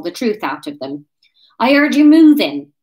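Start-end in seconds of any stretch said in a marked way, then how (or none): 1.6-2.7 loud, higher West Country crow; triumphant Wurzel voice. A narrator's reading. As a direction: pounce on it triumphantly. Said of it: "said Ryan triumphantly".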